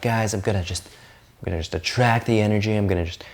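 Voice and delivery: lightly voiced law-of-attraction type; a hint of dreamy wishful thinker; mock abundance believer. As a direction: gently imitate a carefree manifester. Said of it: "people that are kinda like".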